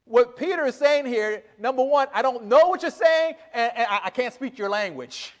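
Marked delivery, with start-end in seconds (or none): 2.1-5.3 flustered, pitched-up denial, high then dropping off; a hint of a cornered man; Peter's denial. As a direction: play Peter stammering his way out of it. Preacher voices Peter's panicked denial.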